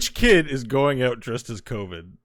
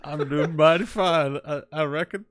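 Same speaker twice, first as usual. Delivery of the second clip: slow, mock Southern cowboy reply, softer; Southern cowboy accent; 5 dB quieter than usual. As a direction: lazily play a howdy-partner cowpoke. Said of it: "are we still being racist?".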